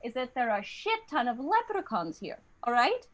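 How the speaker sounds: lilting Irish sales pitch; Irish accent. Acted. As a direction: spin a tall tale in an Irish accent. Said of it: "they were like".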